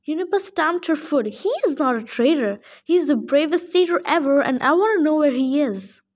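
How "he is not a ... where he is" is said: defiant nymph. Acted. Nymph defending her boyfriend to the satyr, defiant. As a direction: stand up for him, stamping your foot.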